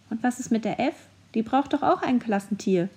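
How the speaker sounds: a lightly squeaky little voice; a hint of a small creature piping up. A small hidden mascot pipes up in the shed, lightly squeaky. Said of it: "sprach eine piepsige Stimme".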